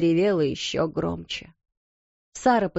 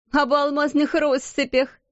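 mocking exclamation; 7 semitones higher than usual. A narrator's reading. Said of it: "воскликнула Лавиния".

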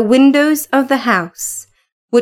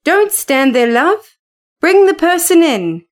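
calling out; 5 semitones higher than usual. Acted. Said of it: "he called out quickly".

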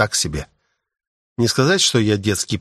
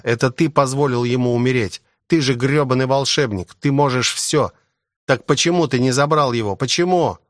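hysterical outburst; 3 semitones higher than usual. Acted. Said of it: "У парня началась истерика".

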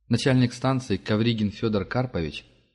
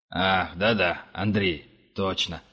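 fawning; 2 semitones lower, slower than usual. A narrator's reading. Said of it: "залебезил охранник".

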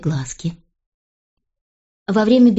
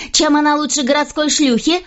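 much higher furious queen; raging; 8 semitones higher than usual. A narrator's reading. Queen raging at the king about Jane, high and furious. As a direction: storm at him, voice shooting up. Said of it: "бушевала Анна".

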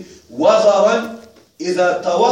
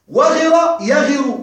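slow teaching demo; 4 semitones higher, much slower than usual. Shown as a demonstration. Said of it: "teacher demonstrates the form".

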